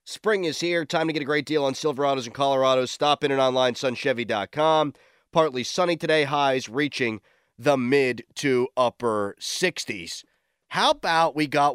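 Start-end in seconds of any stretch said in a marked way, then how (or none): 0.1-10.2 brisk sponsor read, fast. Acted. Radio host reading sponsor copy to listeners, ad read. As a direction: rattle through the ad copy.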